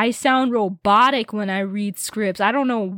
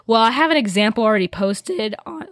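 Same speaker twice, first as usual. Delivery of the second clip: voice cracking; faster than usual. Real, not acted. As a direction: voice cracks mid-sentence. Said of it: "ooh, my voice crack".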